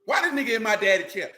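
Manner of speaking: put-on whiny indignant kid complaining to mama; a touch of childish outrage. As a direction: kid protesting the stepdad in his daddy's chair. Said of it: "That's how you say it too".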